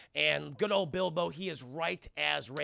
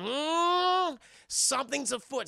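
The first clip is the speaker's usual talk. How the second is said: high hammed-up sleuth voice; lightly voiced pompous sleuth; mock detective; 9 semitones higher, 3 dB louder, slower than usual. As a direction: muse like a cartoon detective.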